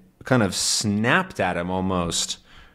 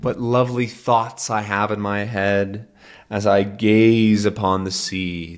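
fancy talk. Acted. Sea captain musing grandly over the sea, mildly fancy. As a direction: read it like a dreamy old sailor. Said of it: "a little bit fancy".

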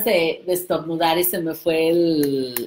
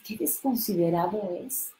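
disbelief; 7 dB quieter than usual. Retold or imitated. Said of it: "tú lo ves y dices".

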